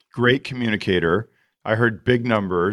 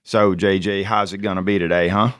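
lightly put-on Southern accent; playful road-trip Southern accent, not fully convincing; 2 semitones lower than usual. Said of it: "we'll get into Southern accent".

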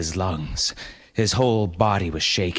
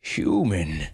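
a giant panda addressing her. Acted. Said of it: "came a voice from behind her".

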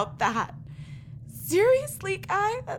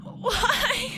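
a tearful, higher why; crying; 6 semitones higher than usual. Acted. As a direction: sob the word out. Grieving sister hears the accusation.

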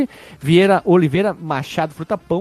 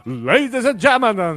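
ring announcer voice; 4 semitones higher, slower than usual. Pretend. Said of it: "sabe quando apresenta o lutador".

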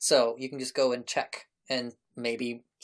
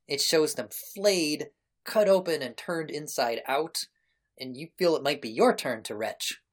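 game master narration. Acted. Game master describes the scrolls to the player, deliberate narration. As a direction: unfold the grisly discovery deliberately, pausing between images.

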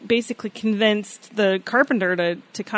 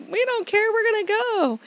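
high, carefree oyster voice; lightly voiced eager kids; defiant little oysters; 11 semitones higher than usual. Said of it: "they're like".

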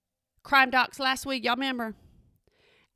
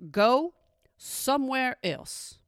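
stern mom warning; slower than usual. Retold or imitated. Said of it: "here is the line that I say every time".

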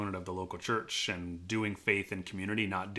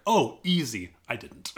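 laughing; 9 semitones higher, 10 dB louder, slower than usual. Real, not acted. Joking answer to family.

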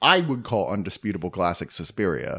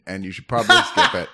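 laughing; 6 dB louder than usual. Real, not acted. Laughing while dismissing movie.

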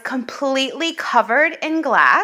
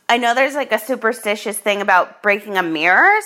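ordinary talk, nothing marked

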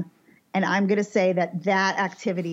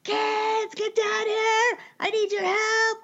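frantic screaming; 14 semitones higher, much slower than usual. Retold or imitated. Husband screaming up the stairs for the kids' help, frantic high yell. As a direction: bellow for the kids upstairs in a panic. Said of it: "Starts screaming".

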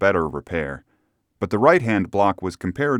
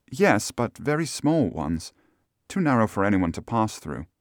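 lightly voiced lady answering questions; hint of a gentlewoman's voice; Miss Stoner, cooperative client; 3 semitones higher than usual. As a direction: play the client confirming details, a little higher.

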